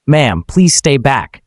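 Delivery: slow, firm command to step back; stern order. Acted. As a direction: lay down the order slowly. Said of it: "Carson orders".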